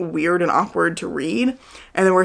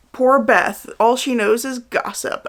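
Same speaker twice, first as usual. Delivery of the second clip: higher-pitched mock pity; mock condescending; 6 semitones higher, slower than usual. Reviewer voicing main character belittling best friend, mock condescending. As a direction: imitate a smug character looking down on a friend. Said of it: "she was extremely condescending to another character".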